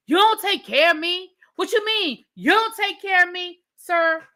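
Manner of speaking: high, disbelieving echo; incredulous. Real, not acted. Vlogger repeats his claim back at him, high in disbelief. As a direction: repeat it as if you can't believe your ears.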